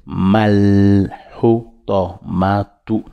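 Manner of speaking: Mal hutamatu with the h from the throat. Shown as a demonstration. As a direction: hutamatu said slowly, h rasped in the gorge. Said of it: "h, toujours dans la gorge".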